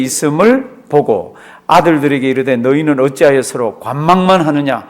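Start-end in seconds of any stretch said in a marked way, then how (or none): 2.6-4.9 nagging father. Retold or imitated. Father Jacob pushing his sons to buy grain, mildly nagging. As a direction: urge them off like an impatient father. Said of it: "막 닥달을 하는 거 있잖아요".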